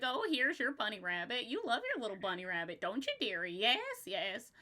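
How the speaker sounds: a lightly voiced old goblin crone, fast in the middle; hint of a fussy goblin granny cooing; junk goblin voice. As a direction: coo at the bunny like a doting little goblin. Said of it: "the junk goblin, the one who is like".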